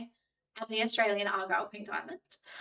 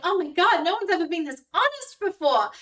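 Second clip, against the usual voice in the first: put-on gushing girl; 7 semitones higher, 4 dB louder than usual. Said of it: "'cause she's like".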